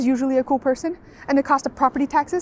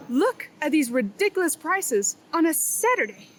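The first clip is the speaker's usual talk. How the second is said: sarcastic; 3 semitones higher, 7 dB quieter than usual. Acted. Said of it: "you should know that I'm being sarcastic".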